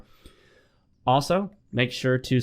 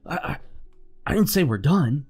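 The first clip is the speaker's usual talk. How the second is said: put-on backpedalling girlfriend; 4 semitones higher than usual.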